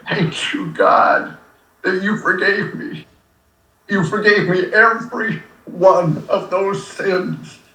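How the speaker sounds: real emotion catching the voice in a prayer of thanks; choked with emotion. Real, not acted. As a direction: thank God haltingly, overcome. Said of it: "I'm emotional".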